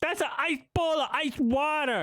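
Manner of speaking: high-pitched mock baby talk. Streamer parroting the woman in the video, mock baby talk. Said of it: "I'm just saying what she's saying, but louder".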